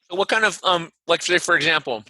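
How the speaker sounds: talking while chewing ice; words round a mouthful of ice. Real, not acted. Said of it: "and I'm chewing ice".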